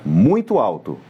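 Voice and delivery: brief demonstration of loud talk; speaking too loud. Shown as a demonstration. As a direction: voice jumps up on "alto". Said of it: "Se eu começasse a falar com vocês muito alto".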